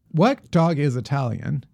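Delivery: put-on Italian accent. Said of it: "The winner, of course, is this".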